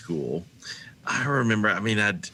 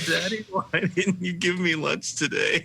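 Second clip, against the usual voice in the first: put-on sad little boy; 8 semitones higher than usual. Son's question again.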